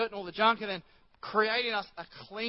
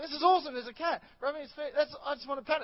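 put-on higher, childlike gush over the cat; mock gushing delight; 7 semitones higher, faster than usual. Retelling his cat delight.

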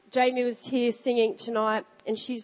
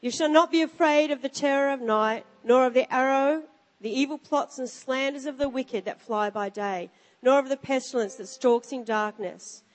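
scripture reading. Acted. Reads scripture aloud.

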